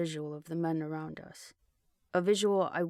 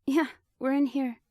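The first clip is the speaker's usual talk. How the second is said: louder, higher call with a chuckle; chuckling; 8 semitones higher, 6 dB louder than usual. A narrator's reading. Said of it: "still chuckling".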